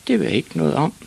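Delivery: put-on high-pitched innocent child; reply meekly in a high voice; little boy's high, unknowing answer; small boy. Ivan answers father.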